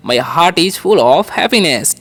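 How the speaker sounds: "My heart is full of happiness" repeated slowly. Shown as a demonstration. Teacher repeating the model sentence slowly. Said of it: "ठीक है".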